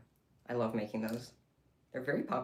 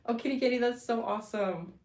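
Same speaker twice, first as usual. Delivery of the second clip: high, loud coo; excited cooing; 7 semitones higher, 4 dB louder than usual. Real, not acted. Cooing over a kitty making biscuits, high and loud.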